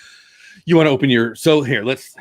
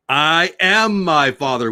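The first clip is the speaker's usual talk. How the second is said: ad quote; 3 semitones higher, slower than usual. Retold or imitated. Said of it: "the Star Trek guy".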